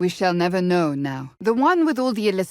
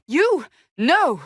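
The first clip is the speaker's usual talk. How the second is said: shocked denial; 8 semitones higher, 4 dB louder than usual. Acted. Shocked at a suggestion.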